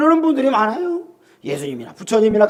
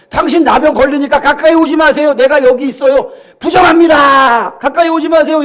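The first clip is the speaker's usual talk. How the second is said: mock warning shout; 3 semitones higher, 3 dB louder than usual. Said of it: "소리를 질러야 돼요".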